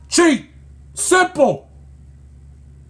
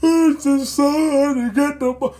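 mock crybaby; 2 semitones higher than usual. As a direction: imitate a pitcher whining like a small child. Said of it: "Sit there sound like a complete Mitch".

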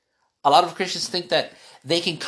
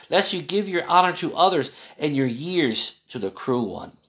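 put-on a solemn Bible reading to a child; scripture reading. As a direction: read the verses steadily, like scripture. Reads Proverbs aloud.

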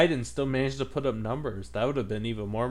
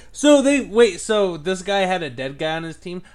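incredulous; 6 semitones higher, 7 dB louder than usual. Real, not acted. Disbelief at a dead player.

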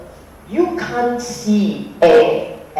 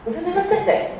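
high, pointed correction with weight on said; emphatic denial again; 13 semitones higher, faster than usual. Real, not acted. Teacher rejecting the misquoted method to students, emphatic. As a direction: drive it home a second time.

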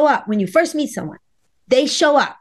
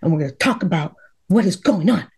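firm husband; 7 semitones lower than usual. Retold or imitated. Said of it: "He's very strong".

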